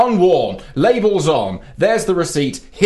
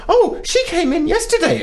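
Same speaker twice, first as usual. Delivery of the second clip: high, prissy mock clerk voice; imitating the clerk. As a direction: mimic the snooty shop assistant. Imitating the shop woman.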